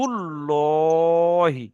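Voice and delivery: হুদুদুল্লহি drawn out slowly with a round, full-mouthed লা; full heavy lah. Shown as a demonstration. Teacher showing the heavy Allah sound, slow round-mouthed হুদুদুল্লহি. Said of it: "দেখেন".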